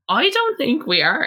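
high-pitched retort, acted out; indignant protest. Retold protest to the guard.

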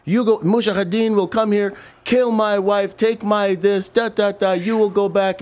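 high, loud outraged father; angry Iraqi dad. Retold or imitated. Irate father yelling at soldiers kicking in his door, high and loud. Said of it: "And he's like".

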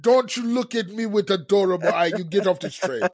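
put-on a light, half-hearted Russian accent; mock Russian accent. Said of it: "that's my Russian accent".

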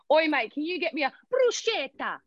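broad Australian turning Italian on "bruschetta"; Australian-Italian accent. Acted. An Australian Italian ordering from a mate, Australian-Italian accent. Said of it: "Australian Italian speaks Australian until it comes".

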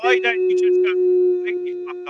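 high, strained yell; shouting. Acted. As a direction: yell it over him. Mock row, shouting over co-host.

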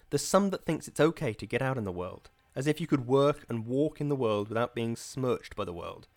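a hint of a revival preacher leaning on the crowd; understated radio evangelist questioning his flock; preacher sermonizing.

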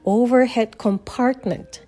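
"compartment" slowly, stressed on PART; slow model of "compartment" as com-PART-ment; stress on second syllable. Shown as a demonstration. Teacher modelling for repetition, second-syllable stress. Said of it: "二音節目にストレスが置かれます".

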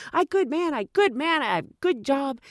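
lightly voiced pleading driver; imitating taxi driver. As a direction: plead his virtue. Voicing the driver.

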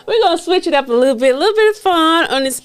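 high, quick, laughing through it; laughing transition. Real, not acted. Host moving to a fun game, laughing. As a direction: shift gears with a giggle.

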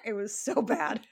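breaking up with laughter mid-sentence; words squeezed out through laughter; laughing. Real, not acted. Laughing at brother's bad horn playing.

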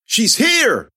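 high, loud sing-song call; eerie announcing call. A narrator's reading. Possessed girl betraying the heroine, a loud eerie cry. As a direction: cry out like a chanting crowd. Possessed kids pointing her out.

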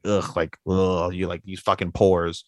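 low, grunted scornful sneer; imitated disgust. Snobbish father to everybody there, low mock disgust. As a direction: look down on them with a mock "ugh". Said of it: "like, disgust".

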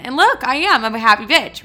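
loud, bright declaration of being happy; excited. Real, not acted. Telling listeners she's fine now, excitedly. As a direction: announce it proudly.

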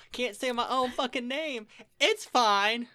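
loud, high exasperated outburst; mock outrage. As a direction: rant at yourself, playfully. Mock outrage at own speech.

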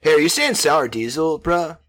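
put-on Joe Rogan in a SoCal surfer accent; laid-back SoCal dude voice. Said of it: "I gave Joe Rogan a SoCal accent".

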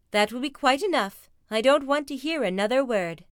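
lightly voiced scolding mum; firm mother bear. Mama stopping the cubs' fussing, firm scolding.

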